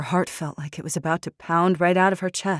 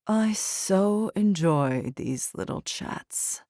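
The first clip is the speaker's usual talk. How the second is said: silky smooth; 3 semitones higher, much slower than usual. Acted. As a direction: purr it out smoothly. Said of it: "Poe's voice was silky smooth".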